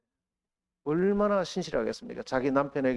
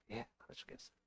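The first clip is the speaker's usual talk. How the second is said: whispered reply; 9 semitones higher, 23 dB quieter, faster than usual. Retold or imitated. Pastor answers the Lord.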